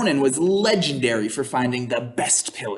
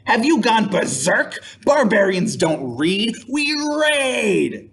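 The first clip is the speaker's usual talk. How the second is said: scoffing friend; 6 semitones higher than usual. Acted. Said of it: "said Helgi".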